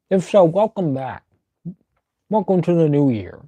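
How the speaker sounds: speaking around a peppermint; muffled by candy in mouth; mouth full. Real, not acted. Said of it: "I have a peppermint in my mouth".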